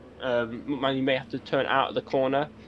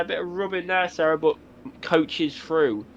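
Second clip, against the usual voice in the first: motorsport commentator; 3 semitones higher than usual. Acted. S1 live race play-by-play.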